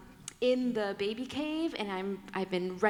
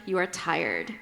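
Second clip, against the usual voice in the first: tender wise woman; 3 semitones lower than usual. Retold or imitated. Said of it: "A wise woman says".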